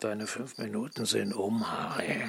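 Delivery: hushed whisper before the attack; tense whispered order. Acted. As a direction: whisper it so nobody hears. Sneaking before a storm attack.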